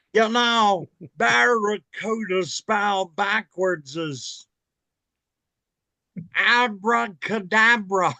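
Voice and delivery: slow, drawn-out announcer voice; lightly voiced Harry Caray; Harry Caray impression. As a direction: play the old Cubs announcer, slow. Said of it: "Mister Harry Caray".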